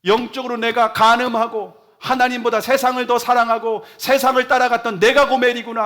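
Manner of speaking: high, loud anguished outcry of confession; loud, high weeping repentance; anguished crying out. Retold or imitated. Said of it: "하면서 막 통곡하며 울었답니다".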